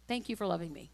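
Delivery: low, soft thanks; intimate prayer. Shown as a demonstration. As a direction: pray softly to a father. Models a morning prayer.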